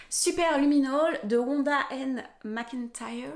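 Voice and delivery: slow, careful English-accent reading of Luminol and Wanda N McIntyre. Real, not acted. Reading an English book title and author aloud in an English accent. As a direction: lean into an English accent on the author's name, slowly. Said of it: "Vive mon accent anglais".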